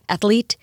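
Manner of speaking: "athlete" in three beats, ath-uh-leet; extra vowel. Retold or imitated. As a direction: add a light vowel before the L of athlete. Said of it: "extra E in there before the L".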